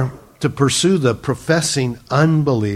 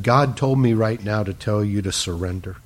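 lower, gently spoken warning; loving admonition; 4 semitones lower than usual. Retold or imitated. Girl urging a stranger to surrender, mildly loving. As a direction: retell a kind but firm word, calmly. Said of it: "she very lovingly said".

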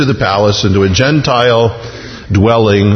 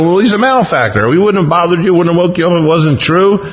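higher-pitched, flustered excuse; mildly flustered, pitched-up protest; sheepish; 5 semitones higher, faster than usual. Acted. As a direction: justify yourself to an annoyed official. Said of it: "And they kinda sheepishly".

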